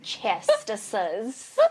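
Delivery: loud, emphatic declaration; said with your chest. Real, not acted. Friend urges her to own her resilience, loud and emphatic. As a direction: say it boldly, with full chest. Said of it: "Say it with your chest".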